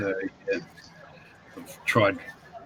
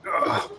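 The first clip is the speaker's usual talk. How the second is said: groan. Real, not acted. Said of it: "Excuse my old creaky".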